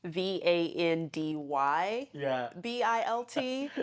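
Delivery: V A N D Y B I L T spelled letter by letter, slowly; spelling out the name. Shown as a demonstration. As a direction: spell out V A N D Y B I L T one letter at a time. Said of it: "So it's Vanderbilt".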